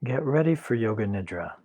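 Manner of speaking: calm guided Yoga Nidra instruction, unhurried; guided meditation. Acted. Teacher settles class into corpse pose, guided meditation. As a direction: lead them into rest with long pauses between instructions.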